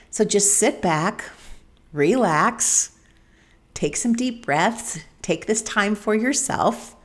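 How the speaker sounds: slow, spaced-out relaxation cues; soothing relaxation guidance. Real, not acted. Host inviting listeners to sit back and breathe, soothing and slow. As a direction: ease them down slowly, pausing between phrases.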